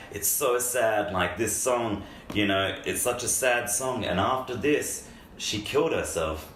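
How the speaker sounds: mock heartfelt lament, drawn out; imitating Freddie. Retelling a coworker's sad story about the singer, earnest and slow. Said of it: "Freddie was just like".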